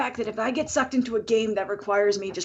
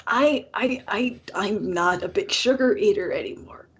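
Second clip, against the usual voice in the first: whispered aside; 3 semitones lower than usual. Real, not acted. Confessing an aside.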